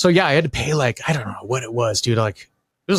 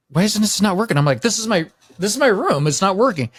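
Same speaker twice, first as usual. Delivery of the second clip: higher-pitched puzzled protest, mildly indignant; baffled complaint; 5 semitones higher than usual. Retold or imitated. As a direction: retell a bewildered gripe about a broken key. Retelling confusion at dead key card.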